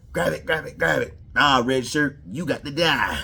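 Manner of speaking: mock an overeager new hire; overzealous new hire. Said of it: "that new overzealous, new hire shit".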